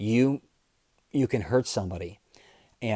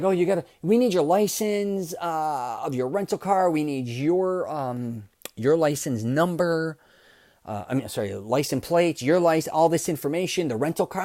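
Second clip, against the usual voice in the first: higher, halting mock clerk voice, stumbling over the details; mild mock flustered clerk, pitched up; imitating flustered clerk; 4 semitones higher than usual. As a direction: lightly play the nervous desk girl fumbling her list.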